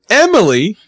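high mock scream of a name; retold scream. Imitating Arya screaming for Emily, high mock scream. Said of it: "Arya screams out".

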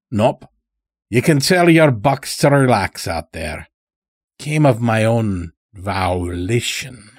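put-on folksy old-timer, unworried; lightly voiced old farmer. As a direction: lightly play an easygoing rustic captive, savoring the last word. Old captive farmer speaks in story.

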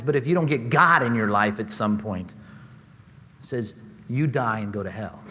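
mocking disdain. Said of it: "such a disdain in his voice".

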